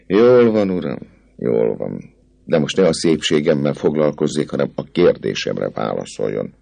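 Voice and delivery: lightly voiced young lady, coy; a hint of a playful girl teasing; Fleur de Lis hangja. (enyelgő, könnyed lányhang)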